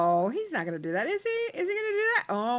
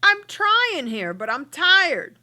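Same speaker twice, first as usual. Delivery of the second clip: high, louder, slow whiny complaint; voicing a tired Sim; 9 semitones higher, 7 dB louder, slower than usual. Girlfriend whining to her boyfriend that she's tired. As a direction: wail it out, worn out and pleading. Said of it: "she's just like".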